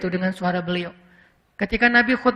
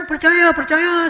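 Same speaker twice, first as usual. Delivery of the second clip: eager agreement; 6 semitones higher, slower than usual. Pretend.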